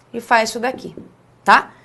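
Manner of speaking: ordinary delivery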